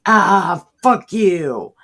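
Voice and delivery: mock outburst. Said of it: "and you're like".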